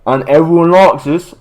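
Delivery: put-on botched Australian accent; wandering Australian accent. Host continues the gag, Australian accent drifting elsewhere. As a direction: let a mock Aussie accent slip. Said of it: "I'm going a different accent again".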